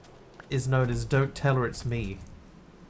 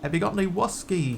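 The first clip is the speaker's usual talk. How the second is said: a bad, hammed-up New Zealand accent, pitched higher; terrible New Zealand accent; 6 semitones higher than usual. Mocking Steve Guttenberg's film role, in a bad New Zealand accent. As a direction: overdo a fake New Zealand accent badly. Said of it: "do an, a New Zealand accent, and it is terrible".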